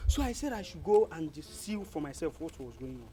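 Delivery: hushed, halting messenger; grave death news. Acted. Messenger tells the elders of Eda Onwa's death, grave and hushed.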